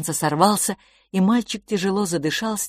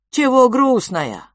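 higher, louder, slow question; curious creature; 8 semitones higher, 7 dB louder, slower than usual. Acted. Creature asks the sad twins why. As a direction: ask kindly in broken speech.

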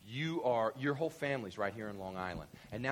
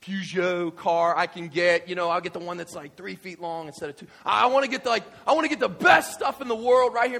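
loud, greedy excitement; transferred worker planning upgrades, loud and eager; eager spender; 6 semitones higher, 12 dB louder than usual. Retold or imitated. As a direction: splurge on the Paris hotel like a kid in a candy store. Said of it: "how many euros are you gonna spend going".

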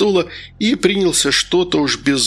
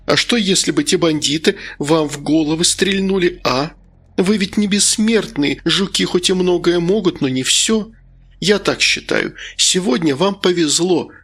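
lightly voiced woman's part, higher pitched; concerned scolding hostess; 4 semitones higher than usual. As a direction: gently lecture the men, pitched up. Older hostess scolds the men. (заботливо отчитывая, чуть наигранно)

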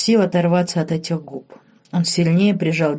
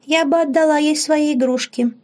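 put-on high childish voice, playful; much higher child's voice, giggly; giggly little girl; 10 semitones higher than usual. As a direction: offer toys like a small girl. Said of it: "хихикнула девочка".

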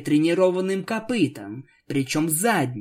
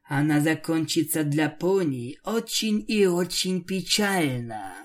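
mustache twirling villain. Acted. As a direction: hiss the doom with relish. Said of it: "зловеще прошипела".

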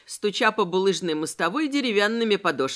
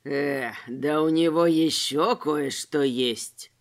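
slow, low wheezing tramp; wheezed; 7 semitones lower, slower than usual. A narrator's reading. Noseless tramp finding loot, slow low wheeze. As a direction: rasp it out greedily. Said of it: "просипел безносый".

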